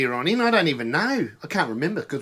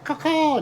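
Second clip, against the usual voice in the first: high mock crow caw; bird call; 11 semitones higher than usual. Mate mimics a bird flying over, high caw.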